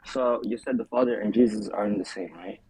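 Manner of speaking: muffled, underwater-sounding mic. Real, not acted. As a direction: voice through a bad muffled mic. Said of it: "you sound like you're underwater".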